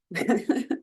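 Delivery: short embarrassed laugh; nervous laugh. Real, not acted. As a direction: laugh off the nerves. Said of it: "Sorry, I'm a little nervous".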